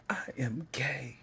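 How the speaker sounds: high, slow, breaking into whisper; choked-up confession. Real, not acted. Child coming out to mom, choked-up confession. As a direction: force it out slowly through real emotion. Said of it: "I literally feel the feeling I felt then".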